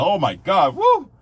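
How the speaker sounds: mock-ecstatic man gushing over his wife; overjoyed whoop, doting on his sweetheart; husband who can't wait to get home, gushing; gushing happy husband. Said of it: "he'll wake up in the morning and be".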